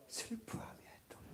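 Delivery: breathy whisper of 슬퍼하며 애통; whispered grief. Shown as a demonstration. Preacher showing Abraham's grief to the church, whispered. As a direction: breathe the words out like mourning. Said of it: "어떻게 해요?".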